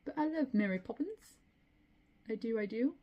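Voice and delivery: high-pitched, hammed-up British accent; bad British accent. Gushing over Mary Poppins in a bad British accent. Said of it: "it's a bad British accent".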